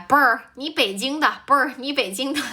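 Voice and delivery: playful attempt at Beijing speech; Beijing accent. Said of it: "Can I do the accent?".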